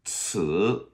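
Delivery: 词 begun with a hissed TS; TS sound. Shown as a demonstration. Teacher asking remember that, crisp TS sound. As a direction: start 词 on a sharp ts, tone rising. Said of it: "that's our T S sound".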